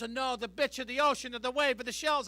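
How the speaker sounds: mild mock Italian accent of a mother; mother's Italian accent. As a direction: put on Mama's Italian accent lightly. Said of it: "that accent throws me for a loop".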